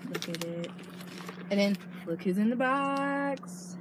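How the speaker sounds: slow put-on celebrity voice; Jeffree Star voice. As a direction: drawl it like a slow star impression. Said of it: "That's my best Jeffree Star impression".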